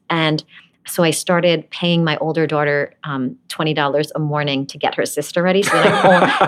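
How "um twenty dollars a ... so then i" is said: laughing. Real, not acted. Laughing at her own bribe.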